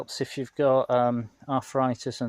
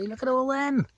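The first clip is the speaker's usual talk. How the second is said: excited; 13 semitones higher than usual. Real, not acted. Excited at lime cluster.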